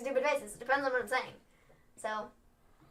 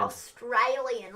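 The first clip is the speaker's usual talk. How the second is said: slow, stretched Australian accent; Australian accent attempt; much slower than usual. Shown as a demonstration. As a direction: try an Australian accent, drawing it out. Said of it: "hard to do an Australian accent".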